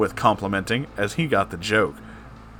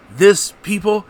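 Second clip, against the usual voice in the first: louder, higher epic movie trailer line; cool trailer voice; 7 semitones higher, 4 dB louder than usual. Acted. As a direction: announce it like a blockbuster trailer. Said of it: "said John Arbuckle coolly for the trailer".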